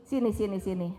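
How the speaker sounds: mother calmly naming her disappointment; calm assertive mother. Shown as a demonstration. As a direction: call the kid close and talk it through kindly. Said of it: "Tapi bisa dong bilang gini".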